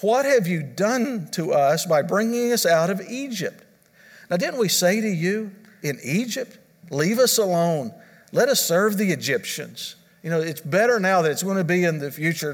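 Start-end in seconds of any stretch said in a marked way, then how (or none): 0.0-10.0 mock-whiny, higher sarcastic complaint; raised, sarcastic taunting of Moses; dripping sarcasm. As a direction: sneer it like a bitter Israelite. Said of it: "you could almost hear the, the sarcasm dripping".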